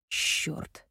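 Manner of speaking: muttered curse. A narrator's reading. Medic seeing the sick boy, muttered curse. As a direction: mutter it under your breath. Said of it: "пробормотал Семён".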